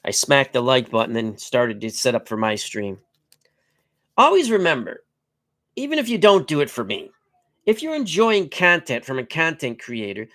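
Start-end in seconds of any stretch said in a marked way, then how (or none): 4.2-10.3 upbeat plea. Real, not acted. Appeal to subscribe.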